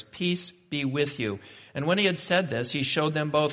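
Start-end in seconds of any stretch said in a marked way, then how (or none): 0.0-1.4 slow, measured blessing; reassuring. Acted. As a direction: offer slow reassurance to frightened friends. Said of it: "that reassurance".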